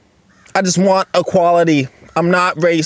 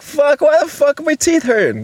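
higher, strained mock complaint about aching teeth; pained self-quote; 10 semitones higher than usual. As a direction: retell the toothache outburst, pitched up. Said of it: "I was like".

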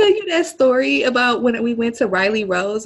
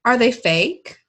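high, slow, sugary cashier voice; mock-sweet shop clerk; imitating the cashier; 5 semitones higher, slower than usual. Cashier asking a customer about freckles, mock sweet. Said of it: "the cashier was like".

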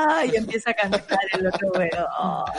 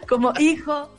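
proud parent voice; 5 semitones higher than usual. Pretend. Parents naming their son, voiced.

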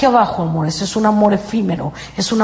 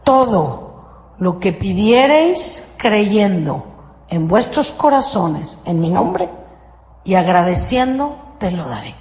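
slow, deliberate recitation with pauses; solemn scripture quote; 4 semitones lower, slower than usual. Shown as a demonstration. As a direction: lay out each word of the formula slowly. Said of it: "Otra vez, aquí va la fórmula".

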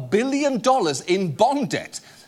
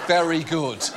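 mock menacing; 5 semitones higher than usual. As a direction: lean in like a menacing host. Mock threatening audience.

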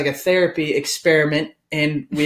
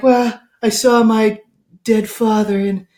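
mock-emotional confession, higher and louder; imitating someone solemnly moved; sad, tearful retelling; 4 semitones higher, 3 dB louder than usual. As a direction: act out a moved therapy confession. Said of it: "all sad".

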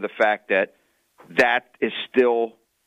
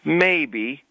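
coy; 9 semitones higher than usual. Retold or imitated. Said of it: "I said".

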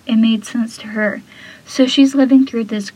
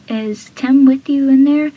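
panicky question; 3 semitones higher, 6 dB louder than usual. Retold or imitated. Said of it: "So he starts panicking".

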